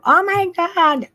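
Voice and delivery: high squeal of disbelief; mock freak-out. Psychic previewing her news, pretend freak-out. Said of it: "I might, like, freak out and go".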